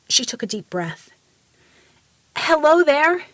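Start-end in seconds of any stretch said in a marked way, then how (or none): 2.3-3.3 louder, higher called-out greeting; shouted. A narrator's reading. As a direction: shout it up to a giant. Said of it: "she shouted".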